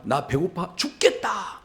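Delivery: hammed-up moan of being famished; dramatic hungry whine. Esau complains to his brother about hunger, hammed-up whining. Acts out Esau's hungry exaggeration.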